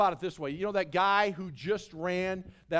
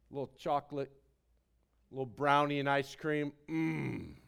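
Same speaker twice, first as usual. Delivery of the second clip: mock savoring dessert; 7 semitones lower, 3 dB quieter than usual.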